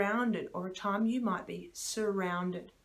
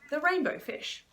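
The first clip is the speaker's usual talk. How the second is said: bright high title announce; broad singsong kids theatre; 9 semitones higher, 3 dB louder than usual. Acted. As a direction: sing out the book title to kids. Teacher names book title brightly.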